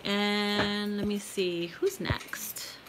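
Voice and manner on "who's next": whispered to self. Real, not acted. Muttering to herself while choosing.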